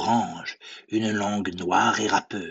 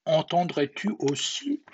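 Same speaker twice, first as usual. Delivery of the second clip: high-pitched gruffalo, loud then easing; 8 semitones higher, 3 dB louder than usual. A narrator's reading. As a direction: call out what you hear, high. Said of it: "puis le gruffalo dit".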